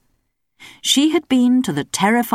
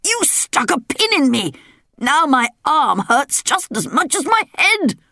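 higher, aggrieved royal complaint; indignant king; 9 semitones higher than usual. A narrator's reading. King complaining to Belinda, higher aggrieved voice. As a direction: grumble like a wounded king.

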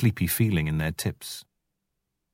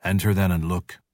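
stiffly. Acted. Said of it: "said Father Wolf stiffly".

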